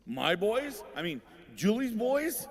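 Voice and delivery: hammed-up fake innocence; mock disowning. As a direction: play dumb, pass the blame to Julie. Dad disowns boys to policeman.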